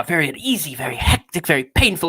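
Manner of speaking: lightly hammed horror-actor delivery; mannered, affected recitation; Vincent Price. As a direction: savour each miserable adjective theatrically. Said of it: "He's like Vincent Price".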